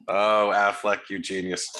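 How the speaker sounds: low, slow mock praise; mock awe. Cohost praising Affleck in slow mock awe. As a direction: savor the praise with fake reverence.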